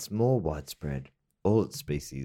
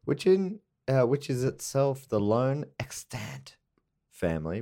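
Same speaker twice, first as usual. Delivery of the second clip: put-on Latin accent. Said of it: "Is that a Latin accent?".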